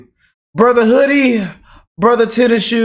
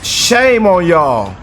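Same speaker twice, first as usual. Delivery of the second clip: slow scolding; much slower than usual. Real, not acted. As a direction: stretch each word, reproachful. Scolding the critics.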